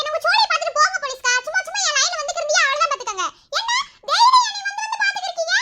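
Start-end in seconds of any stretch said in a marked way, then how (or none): 3.6-5.6 laughing scold. Acted. Girl scolds policeman, laughing.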